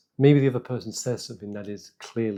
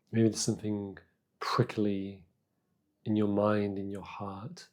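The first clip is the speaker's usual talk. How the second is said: calm, unhurried meditation guidance with long pauses; guided meditation; 3 dB quieter than usual. Real, not acted. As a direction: guide them gently inward, leaving space between phrases.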